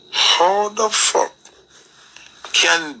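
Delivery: drawn out, pitched high in disbelief; outraged. Real, not acted. Ranting to viewers about Christmas, outraged disbelief. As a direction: stretch it out, incredulous.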